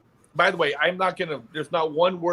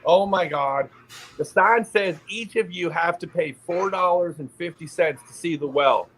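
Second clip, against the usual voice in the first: put-on eye-rolling teen; 3 semitones higher than usual. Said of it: "rolls her eyes at me and she says".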